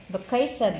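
"Vacation" with weight on "ca"; second-syllable stress. Shown as a demonstration. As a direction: lean on "ca" in "Vacation". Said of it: "là nhấn âm hai".

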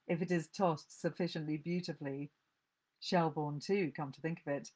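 caustic, dry reading of a mother's voice; story reading. Acted. Book reviewer reads the caustic mother aloud, dryly. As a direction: read it out with biting relish.

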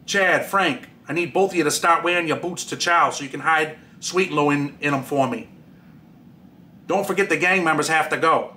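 a light mock Boston accent, dropping the R's; lightly put-on Boston accent, R's swallowed, mocking the boss; fake Boston accent as Steve. Inmate mocking his boss to his friends, mild fake Boston accent. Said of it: "Sad Boy says this in a fake Boston accent".

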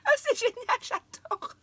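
high, loud laughter breaking into tears; overwhelmed, laughing through tears; laughing and crying. Real, not acted. Opening a friend's gift, laughing and crying at once. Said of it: "Je ris, je pleure en même temps".

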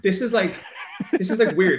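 laughing through the words; laughing at own nerves; nervous laugh. Real, not acted. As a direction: giggle while admitting it's weird.

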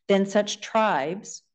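"tribes" drawn out slowly for emphasis; slow right down to land on "tribes"; stress on tribes. Real, not acted. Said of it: "I emphasize the word tribes".

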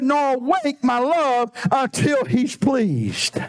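lingering, very slow verse; slow scripture reading. Acted. Preacher slowly reading the verse to the church. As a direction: draw each word of the verse out.

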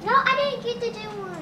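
high fast complaint; whiny protest. Real, not acted. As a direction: complain about missing out. Child complaining about missing turn.

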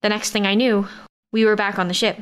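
ordinary delivery

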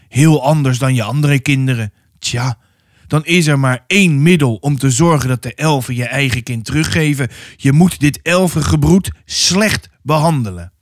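lightly voiced, emphatic priest; stern pastor. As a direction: lay down the only remedy firmly. Pastor pronounces his remedy. (strenge pastoor, nadrukkelijk)

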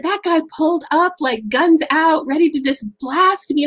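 the barista dramatizing the danger; excited retelling. Retold or imitated. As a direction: barista telling the speaker about the driver, high and dramatic. Barista retells the angry driver.

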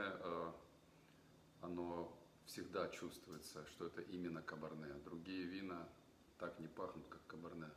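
talking into a wine glass; sniffing wine while speaking; speaking with glass at mouth. Real, not acted.

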